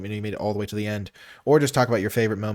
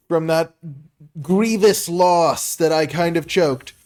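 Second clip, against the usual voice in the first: usual speaking voice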